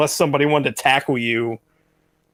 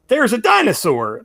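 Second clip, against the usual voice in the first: retold shock, pitched up; shocked exclamation; 7 semitones higher, 3 dB louder than usual. Cashier telling customers about a dinosaur, imitated mild shock. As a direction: imitate a startled cashier in a higher voice. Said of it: "kind of a shocked expression".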